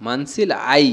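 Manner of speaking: "মানসিলাই" drawn out on the last syllable, ending in a rise; answer intonation. Shown as a demonstration. Teacher showing how one answers "understood", answer intonation on "মানসিলাই". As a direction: stretch and lift the "লাই" of "মানসিলাই". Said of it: "এরকম করে".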